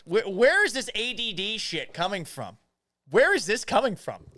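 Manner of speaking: high, incredulous outburst; playfully exasperated rant; mock exasperation. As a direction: demand answers with rising pitch. Mock outrage at scattered chat topics.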